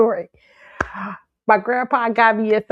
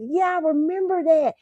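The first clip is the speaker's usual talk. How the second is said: grandfather remembering; 10 semitones higher than usual. Retold or imitated. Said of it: "He said".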